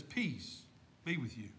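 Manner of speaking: Jesus greeting the frightened disciples softly; soft peaceful greeting. Acted. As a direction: say it hushed, like a blessing. Jesus appears in the room.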